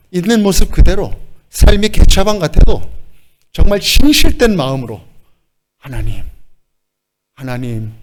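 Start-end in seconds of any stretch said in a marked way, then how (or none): 5.8-7.9 humble call. Shown as a demonstration. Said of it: "그렇게 부르면서".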